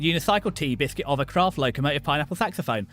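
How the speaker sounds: a light mock British accent, hammed up for fun; silly British accent. Streamer teasing a viewer's anime review in mock British accent. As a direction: toss off each word in a jokey posh British accent. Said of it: "in my silly, funny accent".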